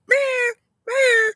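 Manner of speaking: very high mewing meow; cat meow. Retold or imitated. Mocking braggers with a high cat meow. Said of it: "meow like a cat".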